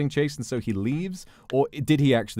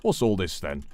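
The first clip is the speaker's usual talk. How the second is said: put-on British accent; 3 semitones lower than usual. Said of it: "a British police officer".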